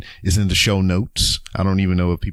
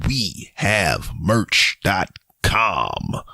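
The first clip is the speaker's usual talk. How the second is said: announcer voice; much slower than usual. Shown as a demonstration. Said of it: "That's my announcer voice".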